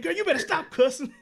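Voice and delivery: high, loud mock scolding through laughter; laughing impression of a cross mom; imitating mad mom. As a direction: scold the child while cracking up. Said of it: "her mom used to get so mad at me".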